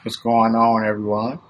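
slightly low, sassy greeting. Real, not acted. Co-host greets listeners on the show, sassy. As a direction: greet them with a bit of sass. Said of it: "use your sassy voice".

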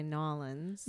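'Nolans' squeezed into two syllables; local pronunciation. Shown as a demonstration. Showing how New Orleans locals say 'Nolans', run together. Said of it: "if you were from New Orleans".

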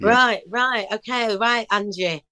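a lightly done, bad Northern English accent for the pianist. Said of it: "I'm doing a bad Northern accent".

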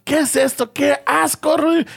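mock disgust. Imitating woman's disgust.

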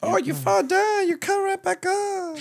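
very high, sing-song mock Asian accent. The lady consoling him, in a high mock Asian accent. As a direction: pipe it up high in the lady's accent. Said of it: "Asian accent".

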